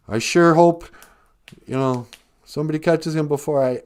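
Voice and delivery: high, loud hammed-up dying gasps; a dying uncle's hammed-up farewell to Peter. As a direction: play the dying uncle's last words big. Dying uncle's last words.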